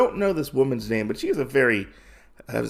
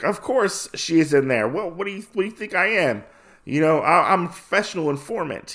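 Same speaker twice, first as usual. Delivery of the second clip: higher cartoonish snitch voice; cartoony informant; 6 semitones higher, faster than usual. Cartoony informant defends himself to the men, higher cartoon voice. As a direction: play him like an indignant cartoon sidekick. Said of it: "he is very cartoony-like".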